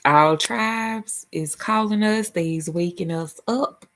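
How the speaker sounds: slow Southern country drawl; country accent. Real, not acted. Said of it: "I sound super country like that".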